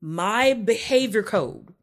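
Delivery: slow, emphatic list of rules; imitating a partner's deliberate declaration; mock rule-giving. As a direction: lay out a code, point by point. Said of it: "And it was like".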